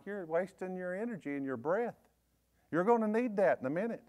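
soft, calm and menacing; cool taunt. Retold or imitated. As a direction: say it quietly, like you've already won. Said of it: "And I'm like".

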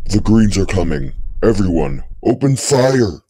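loud alarm rising to a command; shouted battle order. Acted. Sergeant warns the troops of the Greens, loud shouted order. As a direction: shout the warning to the whole troop.

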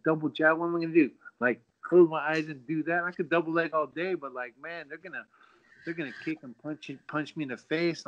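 high, anxious disbelief; mock panic. Fighter to his coach, panicking in a high voice. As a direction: plead like you're about to get beaten up. Panicking about sparring pros.

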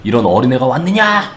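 lightly acted sneering giant, drawn out at the end; imitated jeering, slow and haughty; mock scorn. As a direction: taunt the little challenger, stretching the last word. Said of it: "골리앗이 막 비웃지".

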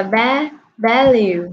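VALUE sounded out from its first syllable "va"; model pronunciation. Shown as a demonstration. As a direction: say "va-", then the full word "value". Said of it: "cô đọc là". (phát âm mẫu "va-, value")

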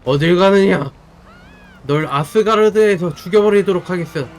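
loud threatening god voice; enraged boss roar. Acted. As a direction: threaten them like a furious deity. Thor character threatens enemy.

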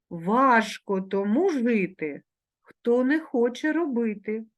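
slow, deliberate reading; slow careful reading; slow proverb reading. Shown as a demonstration. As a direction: read slowly so the class can repeat. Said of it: "вимовляючи дзвінки приголосні ... дзвінко".

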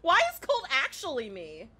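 loud, high complaint breaking into laughter; half-laughing mock outrage; playfully angry. Real, not acted. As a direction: get worked up and laugh at it. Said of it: "I'm getting angry".

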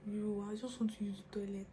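soft pleading whisper; desperate whisper. Retold or imitated. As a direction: whisper the urgent need under your breath. Whispering urgently to father.

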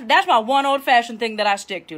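ordinary talk, nothing marked

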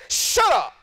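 a hint of an old-school elder cutting off whining; lightly voiced stern pastor's wife; retold stern rebuke. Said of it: "she stepped back off me and she said".

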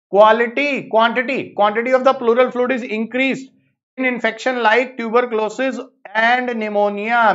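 very slow, word by word, for students to note; slow dictation. Shown as a demonstration. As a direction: read the statement out at dictation speed. Teacher re-dictates exam statement.

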